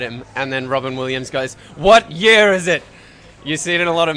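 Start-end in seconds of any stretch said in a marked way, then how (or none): 1.8-2.8 loud, higher-pitched shouted question; shouted film quote. Retold or imitated. Quoting Robin Williams's big movie line to friends, shouted. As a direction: cry it out in disbelief, hammed up.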